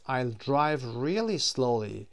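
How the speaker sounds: slow, deliberate example line; slow model reading. Shown as a demonstration. Teacher reading the promise example, slow and clear. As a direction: stretch every word for learners. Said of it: "teacher models example slowly".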